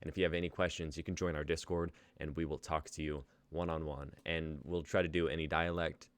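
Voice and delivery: host's attempted RP British accent, slipping in and out. Host closing the show for viewers, in attempted RP accent. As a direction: read the outro in your best RP English accent, sometimes losing it. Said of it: "but we do it in our best R P dialects".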